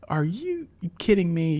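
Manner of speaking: high, indignant outburst, slowed; retold outrage. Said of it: "he went ballistic on her".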